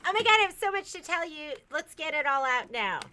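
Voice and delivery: rushed excitement. Pretend. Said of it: "I'm like".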